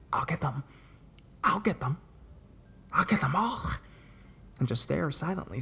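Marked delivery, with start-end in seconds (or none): 0.1-3.6 separated repeats, climbing to a high, eerie pitch; creepy grinning threat. A narrator's reading. Disturbed girl threatens into the camera, creepy and rising. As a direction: voice a disturbed girl's creepy threat through a grin. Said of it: "does this creepy-ass grin then".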